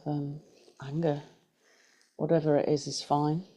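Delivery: unhurried guided meditation voice, long pauses. Acted. Teacher guiding a group through breath and body scan, guided meditation. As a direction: lead them gently through breath and body, leaving space.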